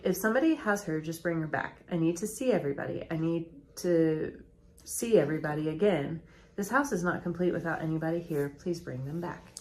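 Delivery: imitating a subdued plea, little emotion; flat pleading. Husband pleading on local news, retold flatly. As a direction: retell the plea with hardly any feeling. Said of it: "very kind of flat".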